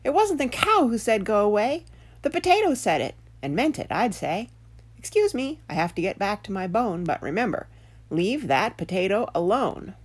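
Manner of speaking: perky talking dog setting him straight; little dog. Acted. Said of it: "little dog spoke up and said".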